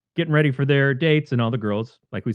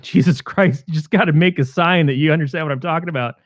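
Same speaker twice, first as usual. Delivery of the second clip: raised, hurried exasperation; retold yelling; 4 semitones higher, 3 dB louder than usual. Chris urging Cynthia to respond, mildly imitated exasperated yelling. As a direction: rush it out in a mild mock yell. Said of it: "Chris is screaming at Cynthia".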